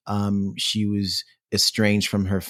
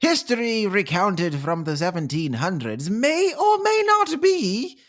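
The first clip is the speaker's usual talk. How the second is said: mock surprise; 9 semitones higher than usual. Mock dramatic reveal.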